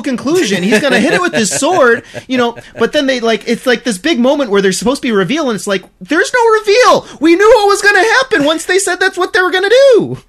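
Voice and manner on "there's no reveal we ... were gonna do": exasperated rant. Real, not acted. Ranting about a predictable anime reveal.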